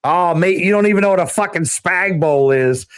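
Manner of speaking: lightly imitated British mate; casual retelling with a British accent; mock British accent. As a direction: imitate a UK friend's British accent telling you off. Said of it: "in his fucking British accent, his U K accent".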